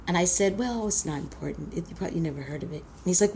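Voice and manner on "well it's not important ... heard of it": much softer, fast, throwaway mumble; coy fake modesty. Girl hinting at the coat to her uncle, coyly offhand. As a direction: pretend it doesn't matter.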